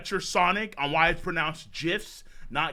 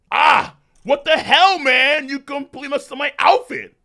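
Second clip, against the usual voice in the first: louder, higher annoyed complaint; voiced Saitama; 6 semitones higher, 9 dB louder than usual. Saitama complaining to Garo about his outfit, louder. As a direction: gripe about the ruined outfit. Voicing Saitama reading aloud.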